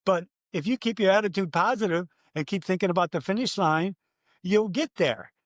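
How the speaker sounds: rally the crowd like a preaching dad. Retold or imitated. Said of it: "a dad preaching".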